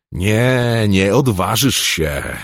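high, loud, slow shriek; a monster's desperate shriek. A narrator's reading. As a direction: scream it at him, disbelieving. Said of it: "wrzasnęła Tirana".

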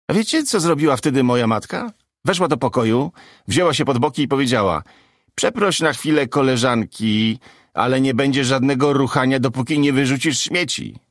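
comic delivering a bit to the room; stand-up comic. Acted. Comic performs joke on stage.

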